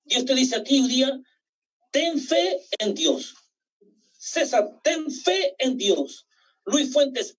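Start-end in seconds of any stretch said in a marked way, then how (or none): 1.9-3.4 slow personal charge. Acted. Preacher tells each church member by name, slowly. 4.8-6.2 slow personal charge. Acted. Preacher tells each church member by name, slowly.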